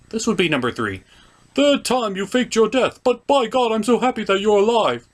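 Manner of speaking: high, excited greeting; delighted high voice. Acted. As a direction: greet a brother with joy. Thor greets Loki happily.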